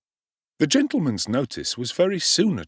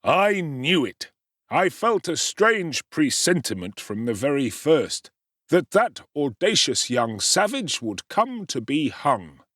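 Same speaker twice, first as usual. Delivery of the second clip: indignant gentleman; 5 semitones higher than usual. Acted. Gentleman self-satisfied, indignant.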